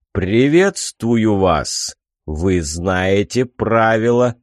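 a hint of an ancient guardian; lightly voiced sphinx. Sphinx states the rules.

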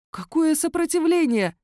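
howled. A narrator's reading. Werewolf to the magistrate, howling in outrage. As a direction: howl it high and loud, outraged. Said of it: "взвыл он".

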